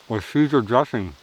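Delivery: talking through a mouthful of food; chewing while saying it; mouth full. Real, not acted. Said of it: "I'm not supposed to talk with my mouth full".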